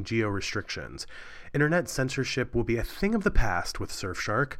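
upbeat sponsor read, words spelled out carefully; lightly performed ad read. Acted. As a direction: sell it like a podcast host ad spot.

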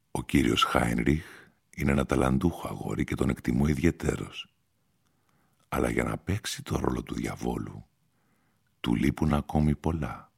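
lightly voiced stranger. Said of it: "αποκρίθηκε ο άγνωστος".

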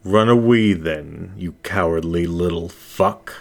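the hidden figure sneers as Zach flees; mocking taunt. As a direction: jeer at him, a hint of menace.

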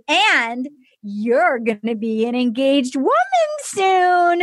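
slow, drawn-out mock proclamation; grand announcement. Host promising her an engagement, hammed-up slow announcement. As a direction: stretch it out like a big reveal.

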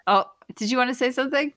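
high, quick sarcastic jab; mock sarcastic. Real, not acted. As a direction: needle her sarcastically. Mock interrupting cohost.

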